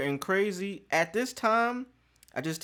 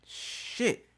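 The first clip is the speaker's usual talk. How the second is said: breathed out with no voice; whispered dread; 7 semitones higher, 7 dB quieter than usual. Retold or imitated. Realising the result is real, whispered dread. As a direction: let it slip out under your breath.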